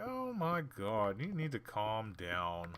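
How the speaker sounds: slow, drawn-out exasperation; exasperated. Retold or imitated. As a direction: roll your eyes through it. Exasperated reaction to complaint.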